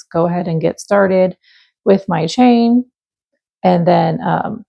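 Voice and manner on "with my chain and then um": cracking, rough voice before clearing the throat. Real, not acted. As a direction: voice catching and breaking. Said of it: "my voice".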